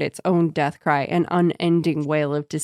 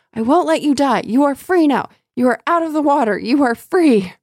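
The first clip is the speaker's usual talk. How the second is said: very high, loud spirit cry; seething shrieking spirit; 8 semitones higher, 5 dB louder than usual. Acted. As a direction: shriek it like a clinging ghost. Spirit voiced in read passage.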